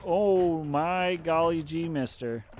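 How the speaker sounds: put-on slow, loud gee-whiz kid voice; wholesome 1950s kid. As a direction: drawl it like an old-timey innocent boy. Mocking healer as naive kid.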